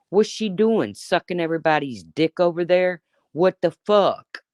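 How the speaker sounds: a hint of a sneering rival; mocking quote. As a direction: throw her words back in a mocking voice. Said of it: "What you said about Jonice was".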